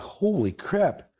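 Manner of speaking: long, high-pitched, slow holy crap; high and slow, amazed; stunned exclamation. Retold or imitated. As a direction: stretch it out in disbelief. Stunned reaction to hearing gunshot.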